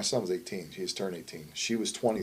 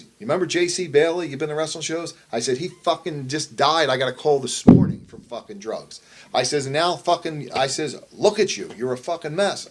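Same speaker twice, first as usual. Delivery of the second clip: higher and louder, pleading through anger; desperate yelling; 4 semitones higher, 5 dB louder than usual. Retold or imitated. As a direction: shout at your son to wake him up. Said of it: "I'm yelling at him".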